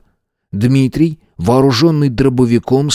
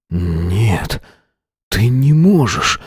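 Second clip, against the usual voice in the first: stunned mumble; much slower than usual. A narrator's reading. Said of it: "ошеломлённо забормотал он".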